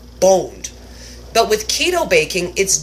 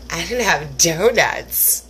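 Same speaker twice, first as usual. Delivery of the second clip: mock sob; slower than usual. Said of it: "And then I was like".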